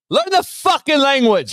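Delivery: high, slow caricature; mock high voice. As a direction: squeeze it high and drawn out. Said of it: "falsetto take".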